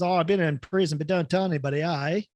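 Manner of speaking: easygoing Aussie bloke in a joke; imitated Aussie mate; Australian accent. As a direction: put on an Australian vernacular. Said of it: "got the Australian vernacular down perfectly".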